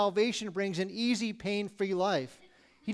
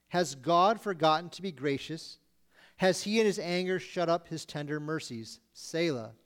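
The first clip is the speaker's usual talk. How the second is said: measured, solemn scripture read. Acted. Preacher reading the psalm to the congregation, solemn. Reads the psalm verses aloud.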